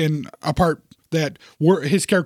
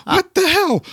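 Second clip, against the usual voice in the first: high-pitched incredulous squeal; mock-astonished, cracking up; laughing disbelief; 12 semitones higher, slower than usual. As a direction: act out baffled amusement, voice leaping up. Baffled reaction to the film scene.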